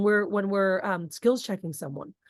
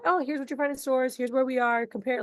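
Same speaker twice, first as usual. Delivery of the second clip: higher, casual informative; just inform, don't sell; lightly upbeat informative; 3 semitones higher than usual. Shown as a demonstration. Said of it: "you're informing".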